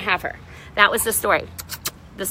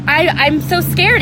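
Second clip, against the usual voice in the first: remembered fear; 4 semitones higher, slower than usual. Retold or imitated. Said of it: "I was so scared".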